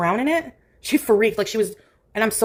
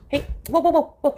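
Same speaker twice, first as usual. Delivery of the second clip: startled whoa; 6 semitones higher than usual. Real, not acted. Cat jumps, owner calls out.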